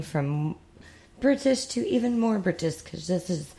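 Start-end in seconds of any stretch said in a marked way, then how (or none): 1.2-3.5 high-pitched, hammed-up British accent. Podcast host switching to her British segment, mock British accent. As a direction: put on a shaky attempt at a British accent. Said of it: "even a British accent?".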